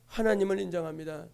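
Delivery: low, soft and inward, 하나님을 said gently; quiet, devout repeat of 하나님을 인정합니다; hushed affirmation. Acted. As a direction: drop to a hush on 하나님을 인정합니다.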